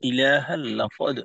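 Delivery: slow recitation, echoing bounce on the final দ of লাকদ; qalqalah. Shown as a demonstration. Teacher correcting a student's recitation, লাকদ ending in qalqalah. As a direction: draw out ইলাহাল, then release the দ in লাকদ with qalqalah. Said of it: "কলকলা আছে না?".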